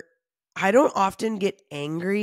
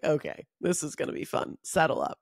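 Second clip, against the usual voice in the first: amused therapist aside; 3 dB quieter than usual. Retold or imitated. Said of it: "where she's like".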